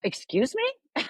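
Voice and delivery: high, slow incredulous excuse me; mock-stunned reply to a friend's news; shocked disbelief. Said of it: "And I'm like".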